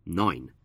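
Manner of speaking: "nine" said alone as the stressed syllable; single out "nine" as the stressed part; "nine" as a demonstrated stressed syllable. Shown as a demonstration. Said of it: "we stress the first syllable".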